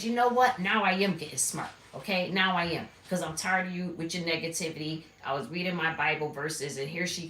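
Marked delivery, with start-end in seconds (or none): 0.0-5.0 loud, high, fed-up retort; retold snap back. Telling the roommate off, loud and fed up. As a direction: let it burst out, fed up. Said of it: "So I said".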